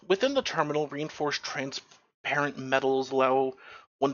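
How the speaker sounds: read-aloud descriptive narration; game master's scene setting. Acted. Game master describing the Mars terminal to players, scene-setting narration.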